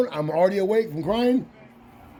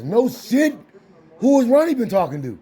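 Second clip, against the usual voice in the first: retold surprise; 3 semitones higher than usual. Retelling dad's surprised response.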